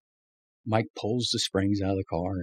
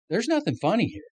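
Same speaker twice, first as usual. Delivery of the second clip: mock stern rebuke; 13 semitones higher than usual. Imitating Mike's stern rebuke.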